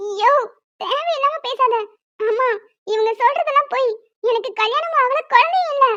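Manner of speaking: high, rising insistence; frantic denial. Acted. Woman insisting to the elder that she isn't married. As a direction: plead to be believed.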